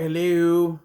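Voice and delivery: exaggerated British-accented hello; mock British accent. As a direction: imitate a badly faked British accent. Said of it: "she's doing this British accent".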